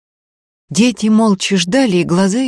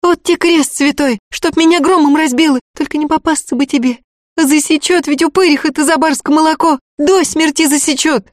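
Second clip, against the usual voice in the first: put-on higher, lively frightened girl's voice, quick at the end; girl Tanka, alarmed; 10 semitones higher, 4 dB louder than usual. A narrator's reading. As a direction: gasp at your friend's daring.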